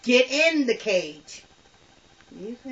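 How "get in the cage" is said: slowly spelled-out order; slow retold command. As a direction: repeat it slowly. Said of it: "I said".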